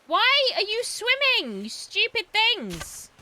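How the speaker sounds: high, slow, drawn-out goofy yell; silly high voice. Pretend. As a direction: taunt the animals in a silly voice. Yelling at swimming animals.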